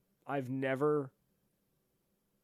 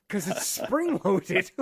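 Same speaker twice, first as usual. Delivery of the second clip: dry sarcastic answer; 6 semitones higher, 6 dB louder, much slower than usual. Retold or imitated. Exasperated answer to airport guard.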